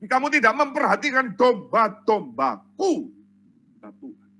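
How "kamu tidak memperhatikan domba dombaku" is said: raised-pitch preacher's reproach; acted divine scolding, mildly forceful; stern rebuke. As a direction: reprove the shepherds as God, firmly. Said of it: "Tuhan menegur".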